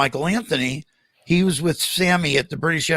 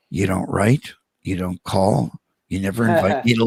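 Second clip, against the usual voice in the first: 1 mock guilt trip; 7 semitones lower than usual. Teasing old bandmate from behind.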